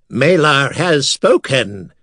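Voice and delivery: slow, otherworldly oracle tone; eerie skull voice. Acted. A skull speaking to terrified priests, eerie and slow. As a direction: intone it like a haunted skull. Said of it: "the skull intoned in an eerie voice".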